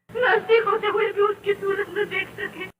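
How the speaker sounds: pleading through tears, voice cracking; mother's tearful plea to the maid. Acted. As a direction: beg her to let you see your child. Mother begging to see her child.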